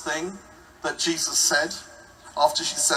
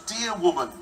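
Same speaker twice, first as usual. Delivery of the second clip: amused. Retold or imitated.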